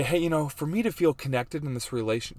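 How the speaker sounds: lightly put-on voice of a wife; girl voice. Husband quoting his wife, in a light girl voice. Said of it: "this is my girl voice".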